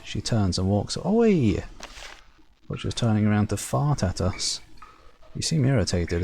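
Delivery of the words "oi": loud high call to get her back. Real, not acted. Player calling after Zulak as she walks off, loud.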